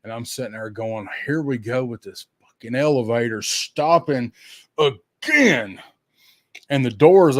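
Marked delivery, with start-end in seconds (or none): 1.3-5.8 retold exasperation, landing hard on "again"; mock fed-up, punching the last word; exasperated grumble. Grumbling to self at elevator stop.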